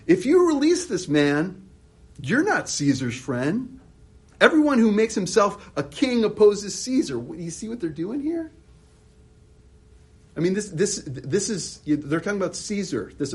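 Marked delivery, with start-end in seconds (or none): 0.1-7.2 loud demanding crowd voice; crying out. Retold or imitated. The Jews crying out to Pilate, loud and demanding. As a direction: shout it at Pilate as the mob.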